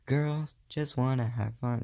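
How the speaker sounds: a hint of singing like a pop singer; impression of a pop singer. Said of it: "That was an awful impression to Cyndi Lauper".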